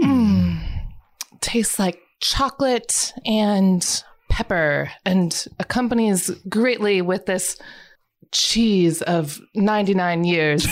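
snooty wine snob. Acted. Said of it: "it's more visual than anything".

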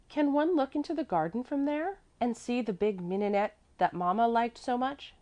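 put-on eager child. A narrator's reading. Mäzli asks about mamma's flowers, high child voice. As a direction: ask hopefully in a child's high pitch.

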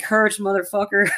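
high put-on character voice; mock rallying cry. Fan quoting the film to a co-host, mock rallying cry. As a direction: deliver it as a high, jokey rallying line.

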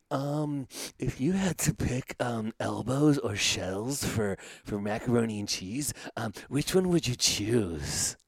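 put-on high, slow pinched kid voice. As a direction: ask it like a small child, drawn out. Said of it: "in a kid voice".

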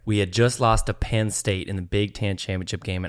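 put-on country accent. Storyteller stuck in the accent to friends, country accent. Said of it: "tell it in this accent".

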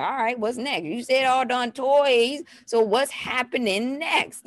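acted-out curious toddler; toddler's expectant questioning. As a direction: stretch it out as an expectant child. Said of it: "her face starting to look around like".

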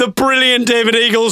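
high, mock announcer call; imitated promoter. Promoter hails the comedian, high mock announcement. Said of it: "says the promoter".

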